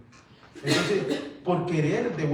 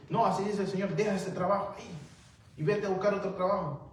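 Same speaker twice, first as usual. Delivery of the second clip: higher-pitched imitation of a would-be prophet; mock prophetic command; 4 semitones higher than usual. Preacher mimics a prophet telling a worker to quit, raised-pitch pronouncement. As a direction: hand down an order as if from God.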